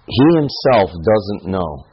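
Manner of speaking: slow, deliberate, weight on "He himself"; stressing he himself. Shown as a demonstration. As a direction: spell out "He himself doesn't know" slowly, leaning on "He". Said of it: "tells me that".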